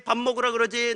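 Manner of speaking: ordinary talk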